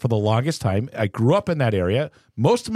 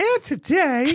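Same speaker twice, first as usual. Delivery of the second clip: very high, tart, pointed delivery. Retelling what Charity says when recording starts: imitating Charity. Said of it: "that's Mark's impression of me".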